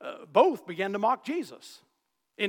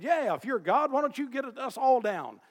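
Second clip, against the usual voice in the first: lightly jeering, pitched up; mocking thief; 6 semitones higher, 4 dB louder than usual. Preacher retelling the thief taunting Jesus, mild mock jeer. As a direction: sneer the dare a little.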